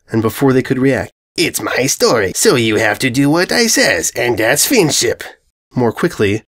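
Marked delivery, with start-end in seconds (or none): 1.4-5.2 lightly voiced dopey brute; a spoiled villain setting the rules; dim bully invader. Invader again.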